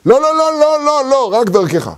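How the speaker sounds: the people begging in a panic, high-pitched; panicked refusal. Acted. People panic refusing direct contact. (סירוב מבוהל וגבוה)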